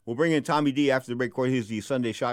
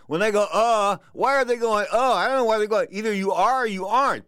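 worked up; 8 semitones higher, 4 dB louder than usual. Real, not acted. Host complains about friends.

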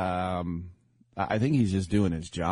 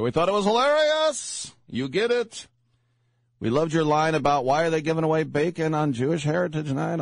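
mock fan voice; 9 semitones higher, 4 dB louder than usual. Fans quoted as high-voiced.

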